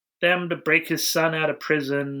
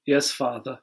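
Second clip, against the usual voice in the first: mock stiff son; 2 semitones higher than usual. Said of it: "He's like".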